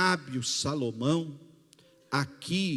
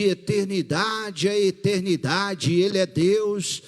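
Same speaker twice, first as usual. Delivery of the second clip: louder, fervent sermon climax; preaching at full force; 2 semitones higher, 5 dB louder than usual. Acted. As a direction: proclaim it to the congregation. (pregação em voz alta e fervorosa)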